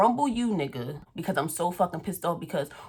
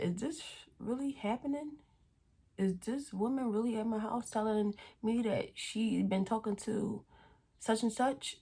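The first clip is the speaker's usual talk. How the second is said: a soft, higher hushed question; hushed disbelief; 4 semitones higher, 7 dB quieter than usual. Retold or imitated. On FaceTime to her friend Tina, hushed disbelief. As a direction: whisper it, not believing it. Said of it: "I said".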